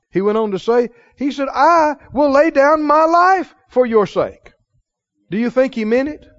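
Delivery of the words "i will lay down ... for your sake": slow, higher-pitched earnest vow; Peter. Retold or imitated. Peter pledges his life to the Lord, sincere. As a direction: draw out the promise with sincere conviction. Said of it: "I believe he was sincere".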